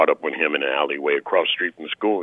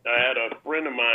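faint, far from the mic; talking away from the phone; phone held away; 8 semitones higher, 4 dB quieter than usual. Real, not acted. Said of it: "you're far away from the phone".

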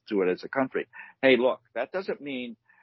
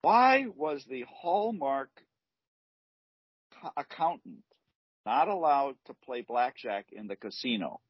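telling a dad joke; 3 semitones higher than usual. Shown as a demonstration. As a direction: stretch the riddle for effect.

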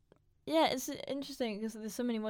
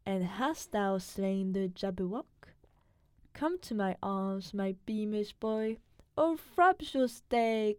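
put-on steady, careful recitation in his British accent; poem reading; slower than usual. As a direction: read the poem out as a cultured foreigner would. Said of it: "You wanna try reading it really quick?".

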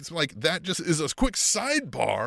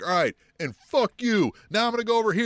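mock dismissive MJF; 9 semitones higher, 4 dB louder than usual. MJF voiced brushing someone off.

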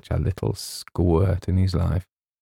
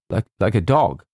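stammering, louder echo; faltering; 3 semitones higher, 4 dB louder than usual. Acted. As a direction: falter over the repeated words. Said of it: "faltered James".

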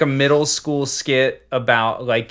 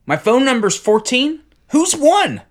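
high mock caller; 12 semitones higher, 5 dB louder than usual. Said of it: "they'd be like".

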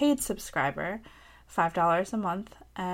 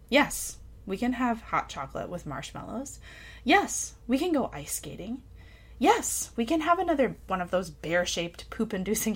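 essay reading. Acted. Reads her essay aloud.

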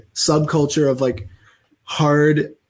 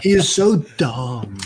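Jesse voice repeat; slower than usual. Retold or imitated.

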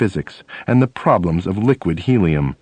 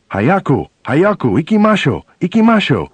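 urgent Japanese command; 7 semitones higher than usual. Retold or imitated. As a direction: hurry the bus along in rough Japanese. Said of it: "which means, "Let's go, let's go, hurry, hurry".

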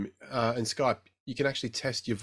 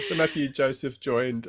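after laughing hard; slower than usual. Real, not acted. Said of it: "It's actually hard to say".

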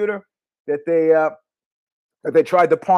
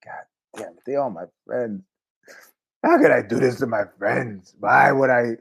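mock inner anguish; 6 semitones lower than usual. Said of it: "I was like".

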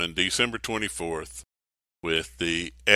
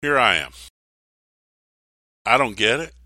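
sincere. Retold or imitated. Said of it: "Mary says".

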